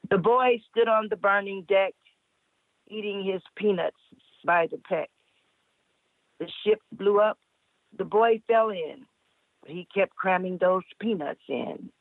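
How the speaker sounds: measured verse reading with pauses; limerick recital. Acted. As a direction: recite line by line, pausing after each.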